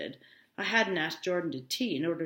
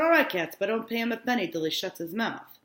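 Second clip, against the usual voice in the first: loud; 4 semitones higher, 5 dB louder than usual. Acted. Wolfsheim quoted, voiced loud.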